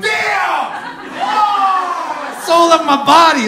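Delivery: high laughing yelp of fright; startled shriek. Retold or imitated. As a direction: jump out of your skin, squealing. Startled scream at stranger.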